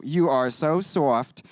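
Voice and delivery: slow, drawn-out Brooklyn accent. Shown as a demonstration. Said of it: "I say that in my Brooklyn accent".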